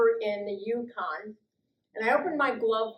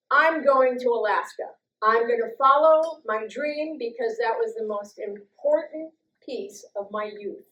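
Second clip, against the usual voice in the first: louder, determined announcement of her plan; excited declaration; 2 semitones higher, 6 dB louder than usual. Retold or imitated. Telling herself she will follow her dream, resolute. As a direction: proclaim the dream out loud.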